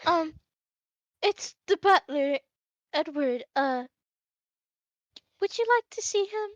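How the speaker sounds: timid maid. Acted. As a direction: maid asks madam about the butler. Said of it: "and she goes".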